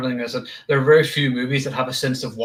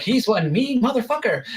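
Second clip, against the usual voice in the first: foul mouthed granny; 7 semitones higher than usual. Retold or imitated. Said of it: "the swearing old lady".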